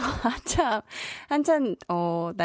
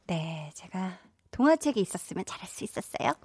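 usual speaking voice

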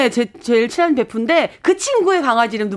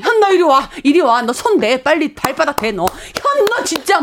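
mock scolding. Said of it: "혼내주죠".

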